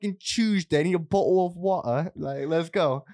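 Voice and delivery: put-on rough take on a Newcastle British accent. British mate talking himself into a Tuesday night out, British accent. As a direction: play a British lad up for a night out. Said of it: "that was a British guy".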